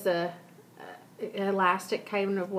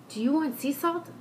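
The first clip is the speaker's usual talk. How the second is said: imitating the nail lady's Asian accent, pitched higher; mock Asian accent on the question; imitated Asian accent; 6 semitones higher than usual. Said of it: "I can use this, I am using the accent".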